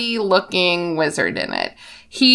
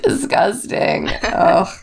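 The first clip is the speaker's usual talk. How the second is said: whispered disgust; slower than usual. Real, not acted. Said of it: "repeated, whispered".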